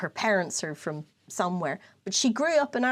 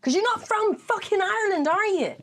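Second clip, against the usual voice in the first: high, indignant comic outburst; exasperated rant; 10 semitones higher than usual. Acted. Podcaster telling fake Irish they are not Irish, exasperated rant. Mock-angry rant at false claimants.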